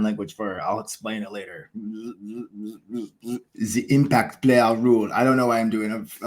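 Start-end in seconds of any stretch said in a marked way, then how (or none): 3.5-5.1 a light, hammed-up evil villain announcing the topic; lightly voiced villain, savouring each word; evil villain accent. Vlogger introducing his cricket topic, a lightly voiced mock evil villain. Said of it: "like, an evil villain accent".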